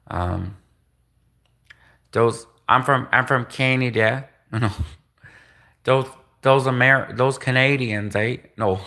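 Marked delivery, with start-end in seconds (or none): 2.1-4.3 badly faked southern US accent. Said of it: "like, a southern accent?". 5.8-8.4 put-on botched southern US accent. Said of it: "I already screwed up the southern accent".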